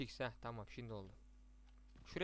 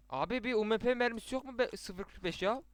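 pleading call; 6 semitones higher, 5 dB louder than usual. Real, not acted. Begging team for ammo.

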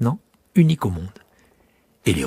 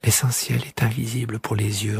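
the little prince echoing the fox to memorise it; the prince repeats; 3 dB quieter than usual. Acted. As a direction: repeat it softly to remember it. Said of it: "répéta le petit prince afin de se souvenir".

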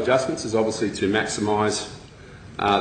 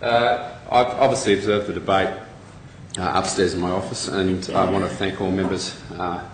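out of breath from the stairs; breathless, catching breath between words; short of breath. Real, not acted. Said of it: "Sorry, I'm short of breath".

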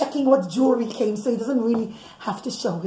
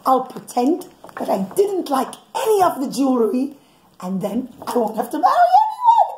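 Yosef's scheming thought. Retold or imitated. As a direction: voice his sly plan, pitch jumping up on the last bit. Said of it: "But Yosef thinks".

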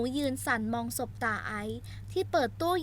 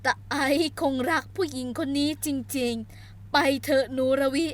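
put-on old grandmother; 4 dB louder, slower than usual. Grandmother voiced.

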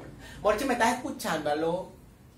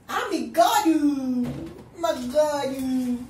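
calling the pet; 4 dB louder, much slower than usual. Real, not acted.

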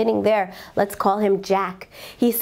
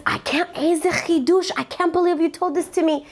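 emotional; 6 semitones higher than usual. Retold or imitated. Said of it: "very emotional".

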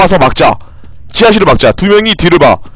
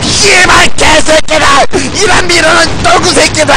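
high-pitched real rage, cursing at full tilt; enraged screaming; 8 semitones higher than usual. Real, not acted. Gamer cursing teammates who will not listen, enraged screaming. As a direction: lose your temper completely, screaming high. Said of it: "제가 소리를 질러서".

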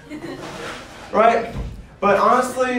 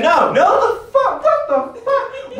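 mock disbelief; slower than usual.

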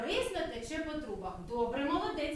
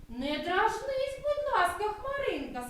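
pleading puppy; 6 semitones higher, 3 dB louder than usual. Acted. Dog pleads with cloud.

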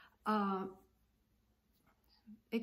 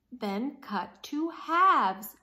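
slow, louder insistence; impatient; 2 semitones higher, 7 dB louder, slower than usual. Acted. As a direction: spell it out firmly. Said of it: "said Alvin".

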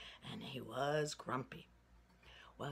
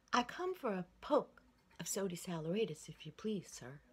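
put-on higher, louder little boy's voice, polite; 3 semitones higher, 4 dB louder than usual. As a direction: pipe up like a shy country boy. Little boy asks the shopkeeper.

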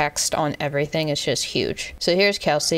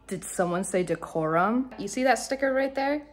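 showy presenter; 7 semitones higher, 4 dB quieter than usual. Acted. Mock showy segue.

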